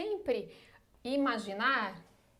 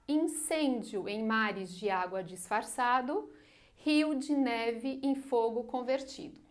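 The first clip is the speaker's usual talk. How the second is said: measured recital of a sonnet; poem reading. Shown as a demonstration. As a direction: read each line like verse, savouring it. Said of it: "ó, percebam".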